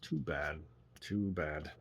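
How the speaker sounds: low, soft muttering; muttered. A narrator's reading. Tipsy old man muttering by the fire to himself, low and soft. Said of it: "he muttered".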